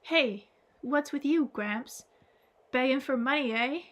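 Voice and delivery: a touch of irritation at Gramps; irritated. Acted. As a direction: brush off an old man with irritation. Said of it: "said with some irritation".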